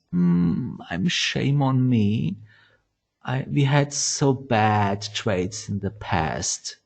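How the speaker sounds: lightly acted shame, slow at first; a hint of a reluctant, embarrassed plea; soft, ashamed voice. Miss Shame pleading against the trade, mildly ashamed. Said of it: "with very soft voices".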